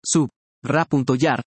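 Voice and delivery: sub, ra punto yar slowly with sub kept whole; slow, pause after sub; syllables split at the prefix. Shown as a demonstration. Teacher showing students the morphological split, slow. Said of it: "que se respete la separación morfológica".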